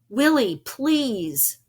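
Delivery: loud pleading yell; scared boy yelling to the ghost. Acted. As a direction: beg loudly for help. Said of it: "I yelled".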